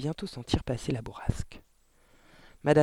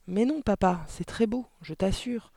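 pleading daughter; 6 semitones higher than usual. A narrator's reading. Daughter pleads for her book.

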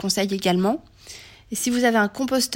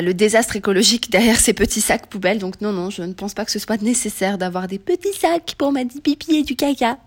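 put-on baby voice. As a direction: read it like talking to a baby. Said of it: "qu'avec une voix de bébé".

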